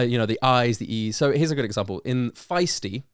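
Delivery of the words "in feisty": feisty said slowly with stressed vowels drawn out; slow on feisty, lean on the I and E; stressed vowels shown. Shown as a demonstration. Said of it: "the stressed vowels are I, E, I, E".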